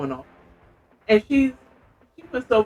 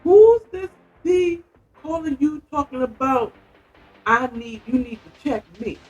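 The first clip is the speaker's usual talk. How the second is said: fake angry; 8 semitones higher, 4 dB louder than usual. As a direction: act furious to pick a fight. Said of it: "she acted all mad".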